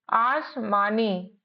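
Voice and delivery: आसमानी said slowly and drawn out for learners; slow teaching word. Shown as a demonstration. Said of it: "आश, A S H". (आसमानी धीरे-धीरे खींचकर)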